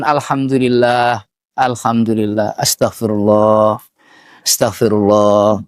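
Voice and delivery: low, evenly repeated dhikr phrases; dhikr practice. Shown as a demonstration. Preacher models tongue training for the women, measured dhikr repetition.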